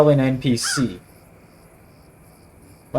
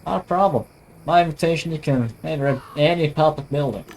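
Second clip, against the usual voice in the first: lightly imitated American sheriff; attempted American accent. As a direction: try a mild cowboy American accent. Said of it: "I can't really do an American accent".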